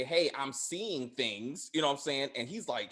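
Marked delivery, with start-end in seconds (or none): 0.0-1.7 slow quote. Retold or imitated. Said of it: "so Lucky is trying to say".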